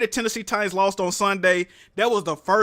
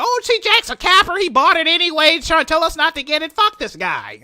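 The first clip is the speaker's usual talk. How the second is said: mocking viewers; 7 semitones higher, 4 dB louder than usual. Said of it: "they be like".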